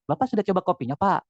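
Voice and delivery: mild, considerate demo tone; gentle, polite intonation. Shown as a demonstration. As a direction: ask politely, as if face to face. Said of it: "ini saya halus nih ya".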